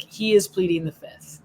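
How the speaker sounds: mild stress on IS in "He is pleading"; emphatic. Retold or imitated. Reading out Simone's quote to Kayla, mildly emphatic. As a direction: lean lightly on "is", keeping it uncontracted.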